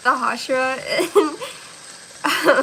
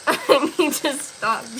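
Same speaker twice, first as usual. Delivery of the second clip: slow giggle; slower than usual. Real, not acted.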